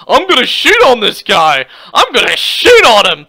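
lightly put-on mock tough-guy delivery; mocking porn-star voice. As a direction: lean on SHOOT, mimicking his threat. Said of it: "you sound like a gay porn star".

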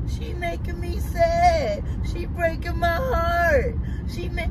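high, drawn-out fake child sobbing; mock crying. Son playing victim to his mother, mock crying. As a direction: imitate a kid working up tears, slowly. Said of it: "go try to start crying".

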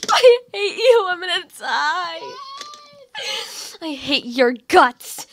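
mock angry yell. Mock rage after dying.

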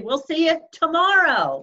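high, loud laughing goodbye. Real, not acted. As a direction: laugh through the sign-off. Laughing sign-off.

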